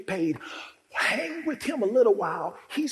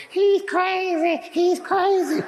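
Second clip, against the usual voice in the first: much higher, louder, slow mocking yell; townsfolk shouting; 12 semitones higher, 7 dB louder, slower than usual. Town people yelling about the naked madman. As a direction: holler it across the town, slow.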